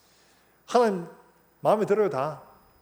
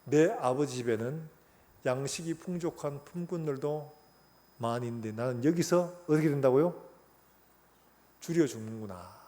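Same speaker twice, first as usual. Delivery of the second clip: rueful confession; 2 semitones lower than usual. Retold or imitated. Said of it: "그런 고백을 하는 거예요".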